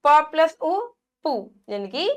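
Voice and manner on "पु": पु with a short, quick u; short quick vowel. Shown as a demonstration. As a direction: cut the u in पु short. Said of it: "जल्दी बोल जाते हैं". (पु को जल्दी, छोटे उ से बोलें)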